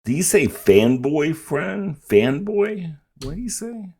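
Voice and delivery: puzzled. Real, not acted. Mishearing a French phrase.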